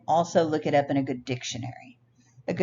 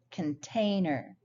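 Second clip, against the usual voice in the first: "container" slowly, middle syllable drawn out; stress demo; slower than usual. Shown as a demonstration. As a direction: stretch the TAIN in "container". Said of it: "always have a stressed syllable".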